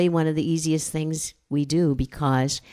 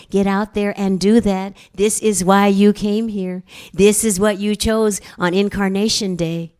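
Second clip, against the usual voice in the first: louder, commanding voice of Spirit; 4 semitones higher, 4 dB louder than usual. Retold or imitated. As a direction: call her out with firm insistence. Spirit's voice calling her to minister.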